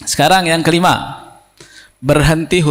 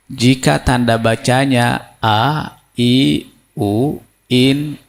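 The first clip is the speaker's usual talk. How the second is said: teacher's explaining voice. Shown as a demonstration. Teacher showing how to explain the stop rule to a pupil. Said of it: "Ini kalau menerangkan ke muridnya, ke orang yang diajar, begini".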